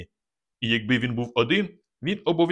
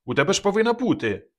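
insistent exclaim; 8 semitones higher than usual. A narrator's reading. Kazik continues shouting to Maryana.

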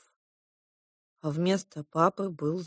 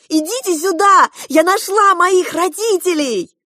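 high, loud pleading yell; desperate shout; 13 semitones higher, 12 dB louder than usual. A narrator's reading. Girl begging the king to see her parents, shouting. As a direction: keep shouting for the king to come. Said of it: "в отчаянии закричала я".

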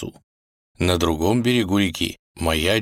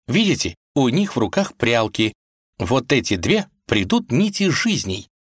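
put-on young woman voice; 5 semitones higher than usual. Vasilisa voiced in story.

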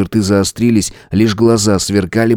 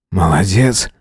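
wheeze; slower than usual. A narrator's reading. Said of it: "прохрипел Свободин".

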